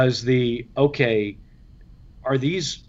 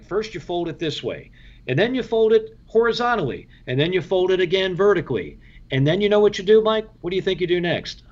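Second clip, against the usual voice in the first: higher, building teasing instructor voice; mock jacket lesson; 5 semitones higher than usual. The speaker teasing the rookie about folding, as a mock instructor. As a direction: play the veteran hamming up a lesson. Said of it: "he's like".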